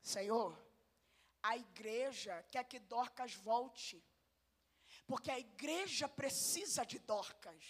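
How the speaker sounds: soft, slow humble prayer; humble praying Peter. Retold or imitated. Peter kneeling before God, a soft humble prayer. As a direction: plead gently as Peter. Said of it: "Imagina Pedro ajoelhado dizendo assim".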